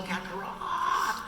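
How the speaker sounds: Kakarot slow, stretched on the final syllable; building demo. Shown as a demonstration. Coaching a fan to build to the final syllable, Kakarot drawn out and held. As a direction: draw out the end of Kakarot and hold it. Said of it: "start small and build up".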